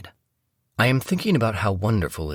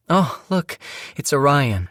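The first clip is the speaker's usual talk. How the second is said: excited wife; 9 semitones higher, 4 dB louder than usual. Acted.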